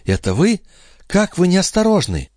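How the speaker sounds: high-pitched mild scolding; acted reproach, pitch leaping up; reproachful. A narrator's reading. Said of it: "укоризненно произнесла".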